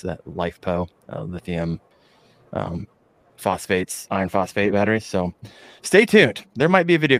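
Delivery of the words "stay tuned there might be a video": punchy, bright sign-off, louder and higher; excited teaser. Real, not acted. Host teasing his audience about an upcoming video, excited. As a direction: hype the next video to viewers.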